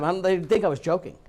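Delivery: normal talking voice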